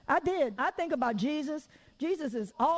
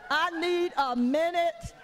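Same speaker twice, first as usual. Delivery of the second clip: dragged-out "need a minute"; slow, tired repeat; 5 semitones higher, slower than usual. Shown as a demonstration. Mother repeating to God, slow and tired. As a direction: stretch "I need a minute" slowly and wearily. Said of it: "but I need a minute".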